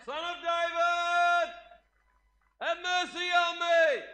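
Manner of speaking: high, slow, stretched cry for mercy; desperate shout. Acted. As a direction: call out across a crowd, begging. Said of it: "begin to shout".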